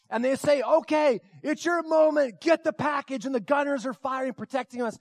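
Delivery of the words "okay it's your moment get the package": higher-pitched commander on screen; urgent mission order. Retold or imitated. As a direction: act out sending the crew into action. Mission guide gives urgent order.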